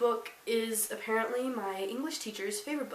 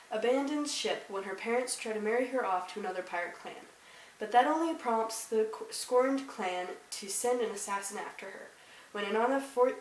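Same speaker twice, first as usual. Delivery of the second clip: measured read-aloud of a book blurb. Acted. Vlogger reads viewers the blurb on the back, read-aloud. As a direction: read it out like back-cover copy.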